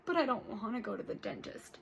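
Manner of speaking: a hint of a grumbling grandpa. Grandpa refusing dentist.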